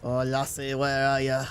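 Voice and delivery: playful Scottish lilt on a steady pitch; mock-Scottish call to a lassie; Scottish accent. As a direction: slip into a light Scottish accent. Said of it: "I suddenly turned Scottish".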